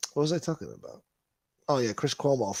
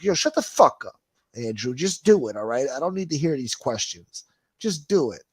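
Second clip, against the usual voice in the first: loud, exasperated telling-off; mock angry retort; 3 semitones higher, 4 dB louder than usual. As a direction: snap at him to stop talking and act. Ranting back at the governor.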